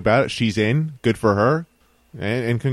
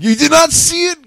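disbelief; 7 dB louder than usual. Real, not acted. Friend missed the big announcement.

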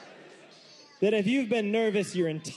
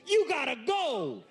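curt nurse order; 9 semitones higher than usual. Retold or imitated. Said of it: "he goes".

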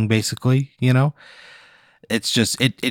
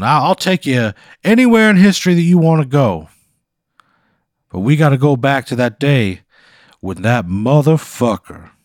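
Foghorn Leghorn; 3 semitones higher, 4 dB louder than usual. Acted. Scene: the time-travelling quilt introduces itself to Pat, in a blustery cartoon rooster voice. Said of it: "Foghorn Leghorn".

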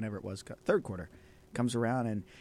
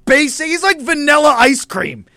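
exasperated shouting; 6 semitones higher, slower than usual. Real, not acted. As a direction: yell it in disbelief. Exasperated rant about Purdy.

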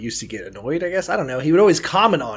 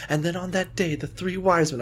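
somber reading; 4 semitones higher, 5 dB quieter than usual. Retold or imitated. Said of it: "trying to somberly read the story".

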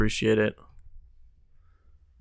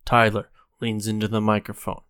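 dramatic narrator; 6 dB louder than usual. Pretend. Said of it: "Dramatic reenactment".

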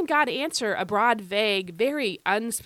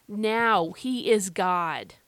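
very slow, leaning on "is"; deliberate, drawn-out stress on "is"; emphasis on IS; 2 semitones lower, much slower than usual. Shown as a demonstration. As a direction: hold "is" long before "God". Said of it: "why am I emphasizing this present tense verb".

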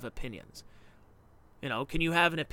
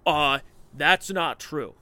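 mock objection; 8 dB louder, much slower than usual. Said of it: "branch covidians that say".

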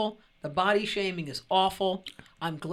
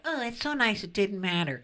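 mock white people. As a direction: imitate a naively touched listener. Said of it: "White people are like".

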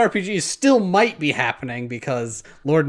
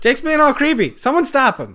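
laughing; 9 semitones higher, 4 dB louder than usual. Pretend. Teasing cohost's creepy gag.

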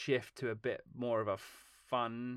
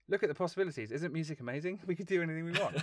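higher, bubbly, wide-eyed pitch; gushing enthusiasm; 6 semitones higher, faster than usual. Retold or imitated. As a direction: sell the wonder of music like an excited kid. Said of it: "it was more like".

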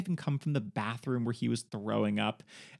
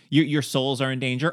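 mock preacher shout; 6 dB louder than usual. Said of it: "It's like".

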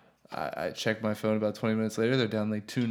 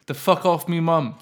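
mock yell; 6 semitones higher, 7 dB louder than usual. Son yelling at attacker on camera.

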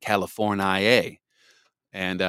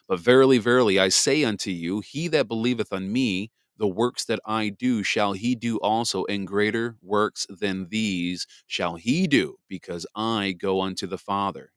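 scripture reading. Acted. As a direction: read it like King James scripture. Reads scripture aloud.

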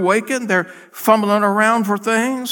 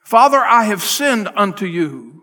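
prodigal's confession. Retold or imitated. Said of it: "what the prodigal said in the hog pen".

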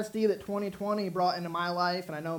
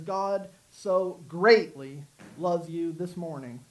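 slow, with "greatly" drawn out; deliberate emphasis on "greatly"; stress on SO GREATLY; much slower than usual. Shown as a demonstration. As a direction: set "so" and "greatly" apart for weight. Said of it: "what if we emphasize so".

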